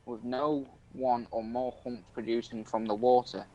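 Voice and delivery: halting read-aloud from an article. Acted. Streamer reads an urban legend to a friend, reading aloud. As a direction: read it out to a mate, stumbling a little.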